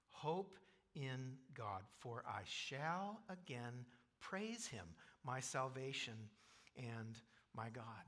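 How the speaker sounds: slow, gentle self-assurance; calm reassurance. Acted. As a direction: settle your soul slowly. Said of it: "Look at verse five".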